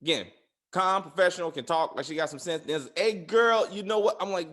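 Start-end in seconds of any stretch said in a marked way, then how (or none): 3.0-4.2 lightly mocked Southern homegirl, a little louder and higher. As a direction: imitate a chatty homegirl calling out. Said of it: "this Southern homegirl shit".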